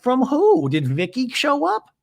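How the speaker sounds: high, surprised mock Gina; lightly voiced surprise. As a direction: gasp out the question. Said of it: "And Gina's like".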